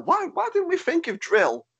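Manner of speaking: high surprised exclamation. Real, not acted. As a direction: realise it suddenly, pitch up. Sudden realisation, pitch jumps.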